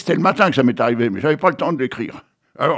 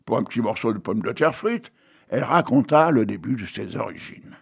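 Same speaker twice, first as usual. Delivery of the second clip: story narration; 2 semitones higher than usual. Acted. Reading his own fries story to the audience, storyteller voice. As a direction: read the tale like a children's story.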